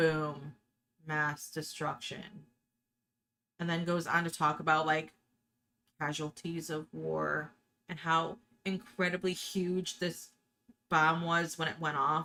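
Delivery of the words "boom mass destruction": put-on flat, bored monotone, quieter. Quoting the science teacher's line about a bomb: Ben Stein monotone. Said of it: "he sounds like he could be, you know, talking about getting a root canal".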